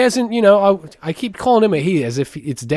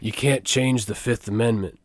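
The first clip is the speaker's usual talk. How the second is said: low mock American accent; an Australian comic's take on an American accent; Australian doing American; 4 semitones lower, 5 dB quieter than usual. Quoting stand-up bit, low Australian-does-American accent. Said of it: "doing the Australian guy doing an American voice".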